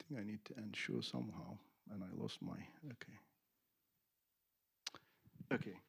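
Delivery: off-mic, distant and soft; speaking away from the microphone; mic handed over. Real, not acted. Handing the microphone to Tony.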